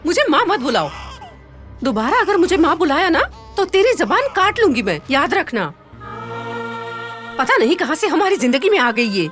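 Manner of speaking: angry rejection. Acted. Stepmother forbidding the girl to call her mother, harsh angry dismissal. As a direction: throw her out with harsh contempt.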